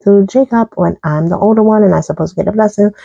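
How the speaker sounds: fast, mildly upset protest; upset complaint. Retold or imitated. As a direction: complain fast, like a wronged older brother. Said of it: "he was so upset".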